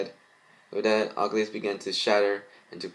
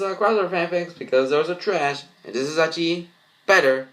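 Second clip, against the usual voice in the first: higher, animated commentary; excited review; 7 semitones higher, 4 dB louder than usual. Real, not acted. Reviewer telling viewers what he thought, excited. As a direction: gush about the story. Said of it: "reviewer reacting to story".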